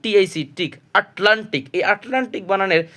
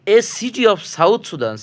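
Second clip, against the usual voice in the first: slow, deliberate spelling out; slow explanation; 4 semitones higher, much slower than usual. Shown as a demonstration. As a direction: spell out the mnemonic slowly. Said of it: "ইএই হলো".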